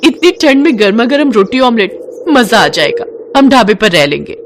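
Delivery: delighted wife. Acted. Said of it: "उसने कहा".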